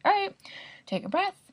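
high, coaxing self-encouragement; self pep talk. Retold or imitated. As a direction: talk yourself through it gently. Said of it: "And so I was like".

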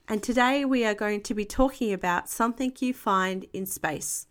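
put-on animated picture-book narration to a young child; expressive children's storytime voice; story reading. A narrator's reading. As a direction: read aloud with lively character lines and calm tags. Reads picture book aloud to child.

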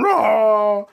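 short demo of his own loud roar; sudden high, loud roar; imitated roar. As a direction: roar "rah" loudly, as you did at the window. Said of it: "I'm standing in front of the window going".

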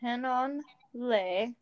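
Hanonle said slowly, ha-non-le; Elvish word Hanonle. Shown as a demonstration. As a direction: spell out Hanonle syllable by syllable, slow. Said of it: "which is "thank you".

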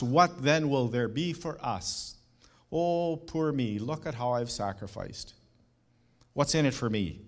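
hammed-up poor-me disciple begging for rewards; self-pitying whine. Preacher mocking Peter asking what's in it for him, mild whine. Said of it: "he boldly asks".

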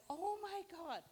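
high, loud excited shriek of surprise; retold scream. Cashier shrieking with joy over the gift, high and loud. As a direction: imitate her thrilled squeal, high and loud. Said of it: "She screamed".

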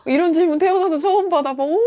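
gasping, high hammed-up amazement; loud theatrical astonishment to shame them; mock shock. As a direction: make a big show of disbelief. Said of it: "약간 이렇게 해가지고".

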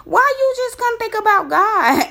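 high, loud exasperated outburst; retold indignant cry, pitched high; angry disbelief. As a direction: fire it back at him in outrage. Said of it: "that made me more angry because I'm like".

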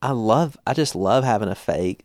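put-on daughter's playful English accent, lightly done; a touch of mock-English; imitated English accent. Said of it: "she greets me in an English accent".

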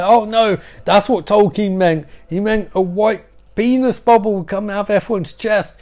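high, loud hammed-up realisation; mock epiphany. Donnie realising the truth, high hammed-up realisation. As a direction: gasp it out as a grand revelation.

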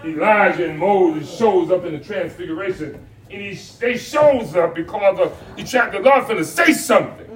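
energetic sermon delivery; full-voiced preaching. Pastor telling the congregation about the transfiguration, preaching. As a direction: preach it with rhythmic punches.

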